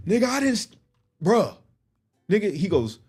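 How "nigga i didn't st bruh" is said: flustered denial. Retold or imitated. Dallas stammering a denial.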